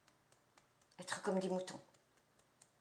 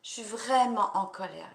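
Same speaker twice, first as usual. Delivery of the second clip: raised voice, pressing on vraiment; venting anger, louder now; anger let out; 4 dB louder than usual. Shown as a demonstration. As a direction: let the anger come out loud. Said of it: "on peut y aller".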